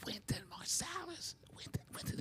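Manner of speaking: hushed, voiceless prompting from the piano; urgent stage whisper. Retold or imitated. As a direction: whisper the name as a covert prompt. Prompting forgetful father from piano.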